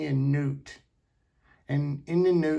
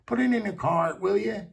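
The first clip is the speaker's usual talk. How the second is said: snippy; 4 semitones higher than usual. Retold or imitated. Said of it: "she's got all snippy".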